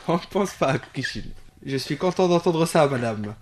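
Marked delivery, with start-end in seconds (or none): 0.0-1.2 laughing. Real, not acted. Repeats it, laughing.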